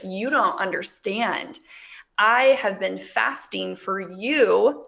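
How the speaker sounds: slow, halting, choked-up retelling; real emotion slowing every phrase; holding back tears. Real, not acted. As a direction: push slowly through welling tears. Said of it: "can't even tell the story without, like, fully crying".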